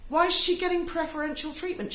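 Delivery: high, laughing disbelief; incredulous. Retold or imitated. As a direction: squeak out the question in mock shock. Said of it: "I thought".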